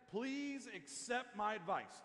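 slow, gently earnest plea; slowly, with respectful sincerity; loving appeal. Retold or imitated. Daniel confronts the king lovingly, respectful appeal. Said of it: "This is exactly how we should confront".

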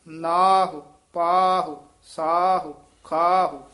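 ਨਾਹੁ, ਪਾਹੁ, ਸਾਹੁ, ਖਾਹੁ each ending in a short u; loud word list ending each ਖਾਹੁ-type word on u; clear final u. Shown as a demonstration. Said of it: "ਫਿਰ ਉਚਾਰਨ ਕਰਨਾ ਹੈ".

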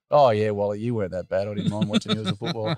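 put-on quick, offhand teasing kid; lightly voiced cheeky teenager. Bass teasing Wally.

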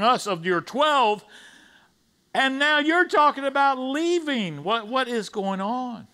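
rising, rushed disciples who can't believe he's leaving; bewildered disciples. Retold or imitated. Preacher voicing shocked disciples, alarmed and pleading. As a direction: plead in confusion, pitch climbing to a high cry. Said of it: "I'm paraphrasing for them".

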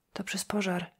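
soft unvoiced whisper. A narrator's reading. Daria whispering to Julia about the fire, hushed. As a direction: hush it like a secret. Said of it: "szepnęła Daria".

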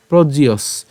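"প্রজিয়স" run together, the ইয় said through the nose; joined nasal sound. Shown as a demonstration. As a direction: join "প্রজিয়স" as one word with a nasal ইয়. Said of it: "ইয়টাকে আমরা নাকে উচ্চারণ করছি". ("প্রজিয়স" একসাথে, ইয় নাকে)

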